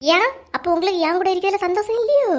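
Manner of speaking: high, challenging wife; hurt accusation. Acted. Wife asks if husband is unhappy with her, hurt challenge.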